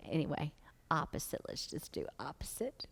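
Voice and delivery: muttered aside. Real, not acted.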